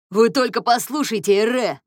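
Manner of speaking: loud, high excited yell. A narrator's reading. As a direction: burst in shouting. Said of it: "завопил он". (громкий восторженный вопль)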